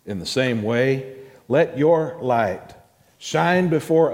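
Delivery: measured, solemn reading of the passage; scripture reading. Acted. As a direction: read it out to the church with weight. Reads scripture aloud to congregation.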